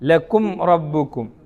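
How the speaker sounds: slow ലക്കും റബ്ബുക്കും with the മ് clearly closed, no nasal hum; recited with izhar. Shown as a demonstration. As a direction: say ലക്കും റബ്ബുക്കും slowly, lips closing cleanly on each മ്. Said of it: "എങ്ങനെ ഓതണം".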